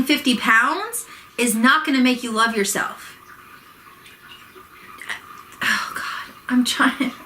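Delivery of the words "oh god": breathy whispered groan; a hushed oh God under the breath; exasperated whisper. Real, not acted. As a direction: whisper it in frustration. Frustrated, restarting video.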